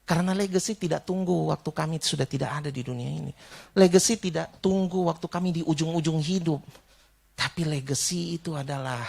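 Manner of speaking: measured, sincere praying voice with pauses; earnest prayer. Real, not acted. Preacher praying for the congregation, earnest and measured.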